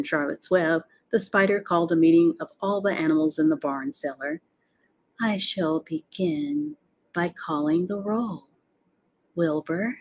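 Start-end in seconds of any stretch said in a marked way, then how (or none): 5.2-10.0 slow, measured announcement; formal roll call. A narrator's reading. Spider opening a barn meeting, formal and slow. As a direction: open the meeting slowly and deliberately.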